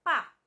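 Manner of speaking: "pá" said alone as one slow, stressed syllable. Shown as a demonstration. Teacher isolates a syllable for pupils, slow and stressed "pá". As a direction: sound out "pá" on its own, drawn out. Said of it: "que é a sílaba".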